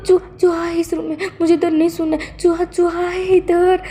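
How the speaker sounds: high, whiny frightened boss; a lightly hammed-up scared man; scared Wang ji. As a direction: plead in mock panic about the mouse.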